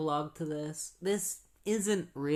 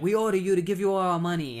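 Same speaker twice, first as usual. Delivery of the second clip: loud, higher-pitched rushed order; play-acted shouted stick-up order; mock robber's demand; 5 semitones higher, 7 dB louder, faster than usual. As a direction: imitate a robber barking a quick demand. Robbers ordering victims in retold story.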